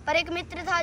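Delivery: steady rhythmic declamation; full-voiced recital. Full-voiced repeat of verse. (पूरे स्वर में कविता पाठ)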